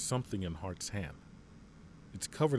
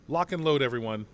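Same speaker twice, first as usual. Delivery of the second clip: barked order; 2 semitones higher, 6 dB louder than usual. Acted. General ordering soldiers before the breach, loud order. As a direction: snap the squad into action.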